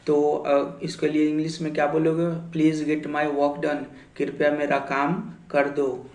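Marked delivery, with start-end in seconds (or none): 2.5-3.8 slow model sentence. Shown as a demonstration. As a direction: spell it out slowly for the class. Teacher models English sentence. (धीरे-धीरे, हर शब्द अलग)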